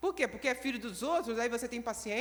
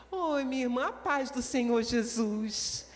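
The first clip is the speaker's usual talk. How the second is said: loving. Acted. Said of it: "igual uma irmã que a gente ama".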